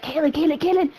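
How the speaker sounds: put-on light Hispanic-accented name calling; imitated Hispanic accent. Imitating Axel calling the teller over, Hispanic accent. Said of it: "he's, like, Hispanic".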